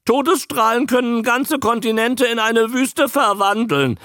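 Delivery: very high, squawky creature voice; high croak with a touch of worry; worried croaking newt. A narrator's reading. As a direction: report alarming news as a talking animal. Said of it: "sagte Andy besorgt".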